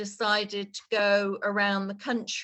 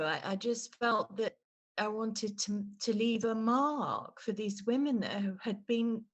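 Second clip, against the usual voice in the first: softer, voice welling with real emotion; emotional; 4 dB quieter than usual. Real, not acted. Telling the host about the murdered women, choked-up and emotional. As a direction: hold back tears as you speak. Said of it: "Sorry, I'm getting really emotional".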